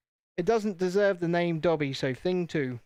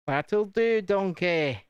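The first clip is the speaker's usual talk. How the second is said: raised, louder cartoon ogre catchphrase; Shrek; 3 semitones higher, 3 dB louder, much slower than usual. Streamer quoting a film ogre after placing a sticker, playful impression. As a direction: do a quick ogre impression, pitched up. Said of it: "As, uh, Mister Shrek himself would say".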